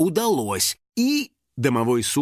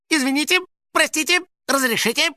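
muttered apologies; 12 semitones higher than usual. Acted. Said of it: "бормотал он".

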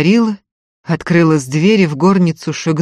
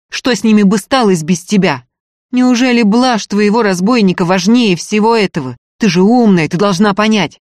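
loud, urgent scolding; raised voice; 4 semitones higher, 6 dB louder than usual. Acted. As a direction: shout her into sense, pressing. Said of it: "Не кричите". (громко и настойчиво убеждая)

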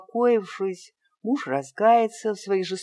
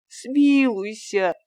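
drawn-out, high, louder смилуйся; slow desperate plea; 6 semitones higher, 5 dB louder, much slower than usual. A narrator's reading. Fyodor begs the master one last time, slow and desperate. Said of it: "продолжал просить Фёдор".

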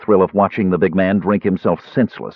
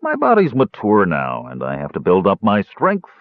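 lofty. Acted. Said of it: "Caramon said loftily".

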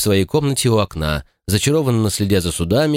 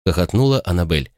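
plain reading voice

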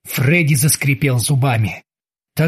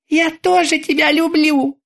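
much higher sweet taunting voice; mocking terminator; 11 semitones higher than usual. A narrator's reading. The terminator taunts Krueger in a sweet high voice. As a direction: coo it with menace.

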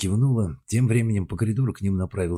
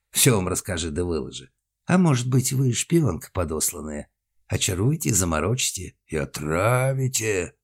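страшный голос. Acted. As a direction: draw it out like a mock villain. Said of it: "заговорил медленно, делая нарочито долгие паузы". (нарочито медленно, страшным голосом)

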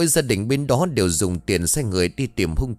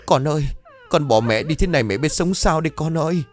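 wailing; 5 semitones higher than usual. Acted. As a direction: cry out over her child's body. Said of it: "gào khóc".

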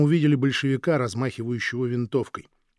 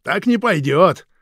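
loud, higher, leering and slow; coarse mocking; 5 semitones higher, 11 dB louder, much slower than usual. Guard mocking the husband's offer, coarse and loud. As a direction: jeer at him with a laugh in it. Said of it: "хрипло загоготал".

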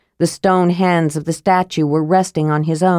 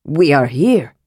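mild cry; 5 semitones lower than usual. Acted. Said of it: "he cried".

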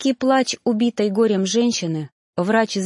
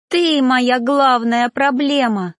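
slow, high, louder accusation; angry cry; 4 semitones higher, 5 dB louder, slower than usual. A narrator's reading. Ghost screams at her stepfather, accusing. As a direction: hurl the blame at him. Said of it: "закричала душа".

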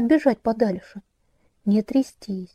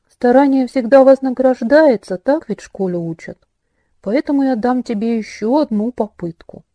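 theatrical villain; 4 dB louder than usual. Acted. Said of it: "говорил, как театральный злодей".

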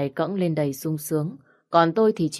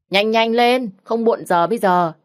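hurrying call; 6 semitones higher, 5 dB louder than usual. A narrator's reading. Ngọc hurries friend in bathroom.

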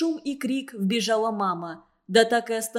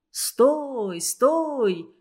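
sudden alarmed shout, a little louder; desperate cry; 3 semitones higher, 3 dB louder than usual. A narrator's reading. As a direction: cry out in panic to stop him. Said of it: "раздался его отчаянный крик". (отчаянный крик)

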